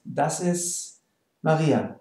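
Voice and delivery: "ist" said as "is", T dropped; silent T in ist. Shown as a demonstration. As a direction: drop the final T of "ist". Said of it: "usually we don't pronounce the T".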